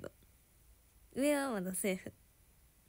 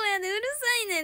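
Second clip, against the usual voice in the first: punchy Kansai うるさいねん, fast and louder; Kansai dialect urusainen; 10 semitones higher, 5 dB louder, much faster than usual. Shown as a demonstration. Telling a Nagoya friend off in Kansai dialect, sharp. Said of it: "関西弁".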